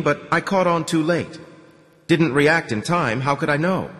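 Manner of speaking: a hint of a cornered official; lightly voiced anxious commander. Commandant confesses his failure.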